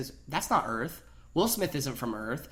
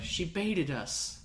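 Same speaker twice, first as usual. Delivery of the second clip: Goldblum imitation; 3 semitones higher, 6 dB quieter, much slower than usual. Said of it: "Jeff Goldblum was like".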